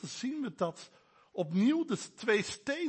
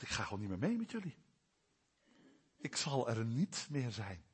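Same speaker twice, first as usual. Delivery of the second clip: God withdrawing; 7 semitones lower, 7 dB quieter than usual. Acted. Preacher voices God withdrawing.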